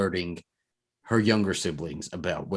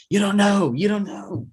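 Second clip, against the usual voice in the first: high, raised-voice mimicry of yelling; mock an arguing partner, pitched way up; imitated yelling; 12 semitones higher, 4 dB louder than usual. Retelling a blow-up argument, mock high-pitched yell. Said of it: "where he yells at me".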